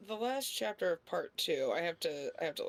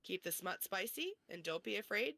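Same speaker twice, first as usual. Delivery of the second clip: scripted sign-off with lilting phrase endings; podcast outro read; 5 dB quieter, faster than usual. Acted. Host thanking listeners and plugging socials, scripted outro read. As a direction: read the show's outro evenly, slightly softer.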